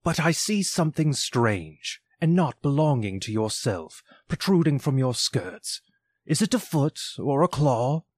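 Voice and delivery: a hint of old Scrooge peering uneasily; Scrooge's voice. Scrooge asks the spirit about the claw, lightly voiced.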